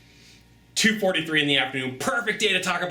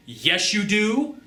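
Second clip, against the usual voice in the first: blunt colleague; 6 semitones higher, much slower than usual. Retold or imitated. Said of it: "if they say".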